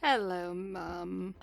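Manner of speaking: slow, faint greeting from a captive; exhausted daughter greeting her mum; weak, tired voice. Acted. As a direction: drag the words out, drained. Rita weakly greets her mother.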